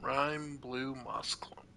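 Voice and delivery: soft, slow, breathy whisper; whispered item name. Real, not acted. Gamer whispering an item name as he picks it up. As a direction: murmur it to yourself.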